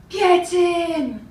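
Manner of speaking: loud, high triumphant yell; berserk shout. Retold or imitated. Woman erupting by the casino bar, berserk shout. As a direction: shout it out like you've just gone berserk. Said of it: "and shouts".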